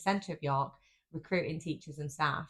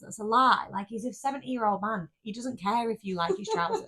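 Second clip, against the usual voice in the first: indignant rant; 5 semitones higher than usual. Retold or imitated. Imagined retort to charity worker.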